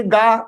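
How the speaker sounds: "ga" held long as "gaa"; long English vowel. Shown as a demonstration. Teacher contrasting English reading, "ga" as long "gaa". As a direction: stretch the vowel of "ga" high and level. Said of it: "means you are in English".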